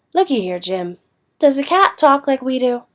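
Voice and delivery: lighter Southern dialect reading; Southern accent. Acted. Teacher reads a reply to Jim, Southern accent. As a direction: let a Southern accent creep into the question. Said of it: "can't help but put the accent with it".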